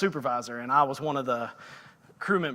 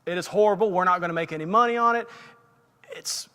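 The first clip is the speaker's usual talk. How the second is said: louder, heated rant over the walkie-talkie; angry complaint; 3 semitones higher, 4 dB louder than usual. Retold or imitated. Angry worker ranting to supervisor on walkie-talkie, heated complaint. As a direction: vent to the boss about the awful job. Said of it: "I got so mad about this job".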